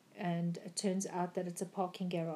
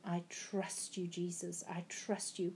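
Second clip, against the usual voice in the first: quiet prayer; 7 dB quieter than usual. Retold or imitated. Retold prayer in the dream.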